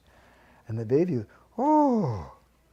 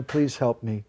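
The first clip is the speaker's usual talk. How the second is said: pleading prayer; slower than usual. Acted. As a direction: ask gently for help. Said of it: "Sometimes we cry".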